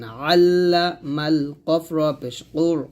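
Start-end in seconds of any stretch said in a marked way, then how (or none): 0.0-1.5 "আল্লামাল" slowly, with a pressured initial ayn; pressed ayn. Shown as a demonstration. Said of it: "আইনের উচ্চারণটা একটু চাপ দিয়ে বলবেন". 2.5-2.9 full, heavy Arabic q in "কুর"; thick qaf. Shown as a demonstration. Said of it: "কফ র উচ্চারণটা একটু মোটা করে".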